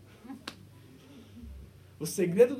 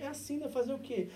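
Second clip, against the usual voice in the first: mock resigned shrug; 7 semitones higher, 5 dB quieter than usual. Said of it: "nós estamos dizendo assim".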